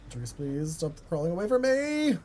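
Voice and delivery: pleading yell, pitch jumping high; yelling while running away. Real, not acted. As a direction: yell after someone fleeing. Chasing survivor in game.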